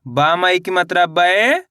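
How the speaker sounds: drawn-out syllables rising at the end, then the word falling; spelling drill. Shown as a demonstration. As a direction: sound it out slowly for beginners, stretching each syllable. (मात्रा जोड़कर खींच-खींचकर पढ़ाना)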